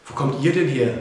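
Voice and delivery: loud, astonished question; surprised call. A narrator's reading. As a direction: call out in amazement. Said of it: "rief Mia".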